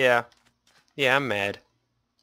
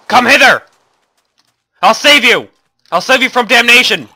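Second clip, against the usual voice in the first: higher, louder hammed-up holy warrior; mock crusader; 8 semitones higher, 6 dB louder than usual. Player charging mobs in Minecraft, hammed-up crusader battle cry. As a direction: charge in like a zealous knight. Mock-heroic attack call.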